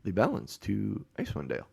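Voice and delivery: fussy, high-pitched, very proper professor; prim little droid-like scholar, lilting high. Acted. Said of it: "He's very proper. He's like C three P O".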